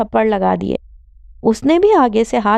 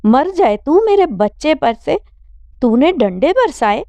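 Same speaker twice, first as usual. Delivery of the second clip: pitched-up furious scolding; angry mother; 6 semitones higher than usual. Acted. Mother scolding daughter for beating her brother, angry. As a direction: take the son's side, furious. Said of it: "Rashida نے غصے سے کہا".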